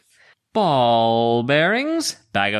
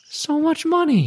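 laughing. Real, not acted. Player laments lost bagpipes.

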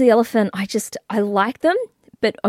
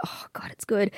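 whispering; 10 dB quieter than usual. Retold or imitated. Inner reaction quoted in whisper.

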